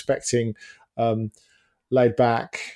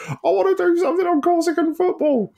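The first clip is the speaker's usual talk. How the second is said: much higher, excited squeaky voice; eager squeal; 3 dB louder than usual. Retold or imitated. Writer retelling his eager pitch to the editor, squeaky and excited. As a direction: blurt it out like an overexcited kid. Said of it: "I went".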